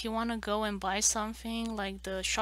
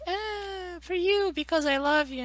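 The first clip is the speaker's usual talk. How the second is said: dad; 9 semitones higher, 6 dB louder than usual. Retold or imitated. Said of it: "He was like".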